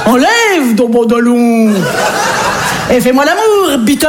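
mock German accent, hammed-up; a light, silly German accent. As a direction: put on a cartoon German accent for a role-play. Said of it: "donc je cherche un accent".

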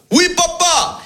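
put-on high eager child's voice; high son's reply. Son answering his father in a high eager voice. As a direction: chirp it up like a young boy.

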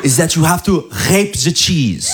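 imitating wife's French-accented English. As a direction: partner quoting her recipe, French-accented English. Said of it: "Elle m'a dit".

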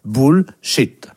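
Bullshit split, first syllable like French boule; pronunciation model. Shown as a demonstration. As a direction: say Bullshit as boule plus shit, separated. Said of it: "Boule comme une boule". (modèle de prononciation, syllabes détachées)

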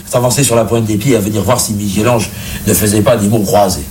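usual speaking voice

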